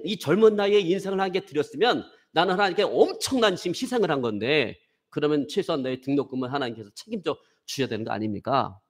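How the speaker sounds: heated argument. Retold or imitated. Young seminarian pleading hotly to his senior. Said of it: "제가 생각하는 논리를 쫙 얘기했어요".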